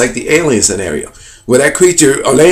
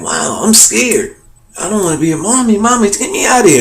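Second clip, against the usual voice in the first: mock frightened child, rising higher; scared child; 5 semitones higher than usual. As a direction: act a child pleading for mommy, without raising volume. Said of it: "And they're crying".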